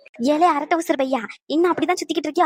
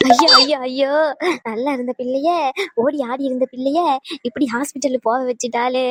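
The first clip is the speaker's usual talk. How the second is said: fake wailing lament. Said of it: "ஒப்பாரி வச்சுட்டு இருக்கீங்க".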